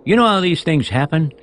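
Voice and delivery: high, loud, stammering excuses; flustered apology. Acted. Umbrella man excusing himself to Soapy, flustered. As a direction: backpedal nervously, tripping over words.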